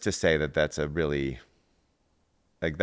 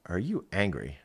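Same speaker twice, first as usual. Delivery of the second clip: asking about anger; 2 semitones higher than usual. Retold or imitated. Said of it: "I was like".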